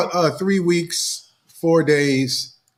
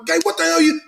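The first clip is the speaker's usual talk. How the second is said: mock flare-up; 11 semitones higher than usual. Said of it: "I wanna".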